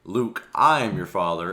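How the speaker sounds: the popular wrong version, slowed like Vader; misquoted Vader line. Retold or imitated. YouTuber quoting the famous misquote, mock Vader. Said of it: "why people say".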